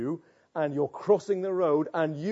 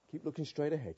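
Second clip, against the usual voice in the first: hushed self-talk; 5 semitones lower, 11 dB quieter, faster than usual. Acted. Sinner keeps himself from turning to face danger, murmured low and soft. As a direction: lower and much softer, murmured to yourself.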